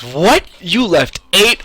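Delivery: high, loud disbelieving cry; can't believe her ears; mock outraged shopkeeper; shocked clerk. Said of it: "she goes".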